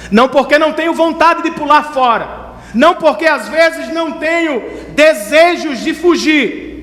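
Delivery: high, impassioned pulpit delivery; preaching at full force. Acted. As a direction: thunder God's promise to the congregation, stretching key words.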